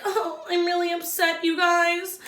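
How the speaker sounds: mock-upset contestant complaining; imitating Katie. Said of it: "she's like".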